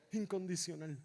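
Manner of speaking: "Incondicional" said low and soft, unstretched; hushed repeat. Real, not acted. Preacher letting it sink in, "Incondicional" low and hushed. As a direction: let "Incondicional" drop to a quiet echo.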